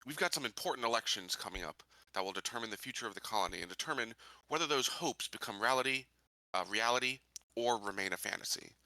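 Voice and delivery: measured public address, deliberate pauses between phrases; rally the colonists like a candidate; in-character speech. Acted. Sheriff candidate addressing fellow colonists on a broadcast, formal speech.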